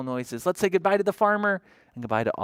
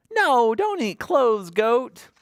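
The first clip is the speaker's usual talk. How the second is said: mock scolding; 9 semitones higher, 4 dB louder, slower than usual.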